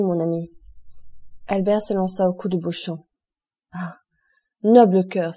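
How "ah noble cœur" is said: louder burst of grateful emotion on noble cœur; grateful cry. Acted. Albert to Beauchamp, overcome with gratitude: a loud heartfelt cry. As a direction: cry it out, overwhelmed with thanks. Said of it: "s'écria-t-il".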